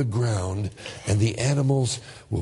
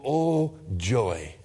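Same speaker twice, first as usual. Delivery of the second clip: sarcastic; 2 semitones lower than usual. Acted. Mock greeting of tiresome person.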